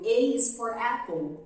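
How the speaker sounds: slow, careful "A is for apple"; English letter sounds. Shown as a demonstration. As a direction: say "A is for apple" slowly, in clear English. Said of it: "por exemplo". (pronúncia inglesa lenta e clara)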